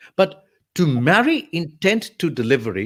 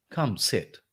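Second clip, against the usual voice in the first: contrasting invitation; 6 dB quieter than usual. Shown as a demonstration. Showing how two words change with intent, softer invitation. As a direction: COME SIT said softer, falling.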